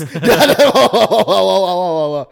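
a long giggling fit, loud; long laugh. Real, not acted. Laughing at his own nerves about kissing.

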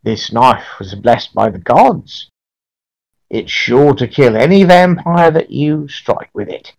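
a hint of an old crone; very old woman. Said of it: "very old woman".

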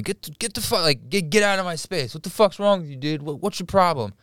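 mock an angry man's yell; imitated yelling. Storyteller imitating a dude yelling in line for his space, mock yell. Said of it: "this dude yelling".

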